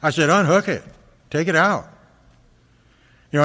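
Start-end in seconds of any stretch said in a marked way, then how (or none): 0.3-1.9 raised, commanding unhook it; retold angry order. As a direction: snap the order at the nurse, mildly. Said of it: "I just went off".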